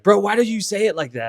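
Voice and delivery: hammed-up annoyed "bro" protest; imitated annoyance. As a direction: imitate a miffed friend complaining. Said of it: "he'll get all mad".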